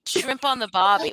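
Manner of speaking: "Shrimp on the barbie" in a clumsy Aussie voice; a failed stab at an Australian accent; mock Australian accent. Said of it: "I cannot do it".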